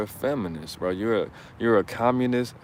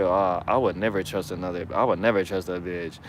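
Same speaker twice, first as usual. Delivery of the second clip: mock bitter man; 4 semitones lower than usual. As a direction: lower mocking voice of a jilted man. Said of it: "you're speaking from your nose".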